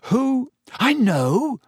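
high, eager burst; excited guess. Acted. Ron bursting out with his guess to Harry, excited. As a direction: pitch it up high with sudden eagerness. Ron laughing about the gift.

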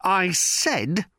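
high, uneasy insistence; quavering defiance. A narrator's reading. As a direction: stand firm with a wobbling voice. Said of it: "could not keep the quavering out".

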